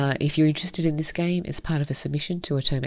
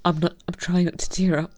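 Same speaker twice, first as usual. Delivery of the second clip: tender, hushed story reading; story narration. Acted. Reading visual novel aloud.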